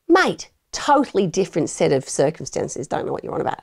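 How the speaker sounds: put-on dismissive Aussie bloke in an Australian accent; mock Australian accent. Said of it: "my attempt at an Australian accent".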